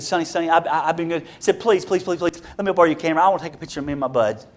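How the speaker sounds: soft, fast pleading; begging kid. Retold or imitated. Tom begging Sonny for the camera on the last day, soft and fast. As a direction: rush the please like a hopeful kid.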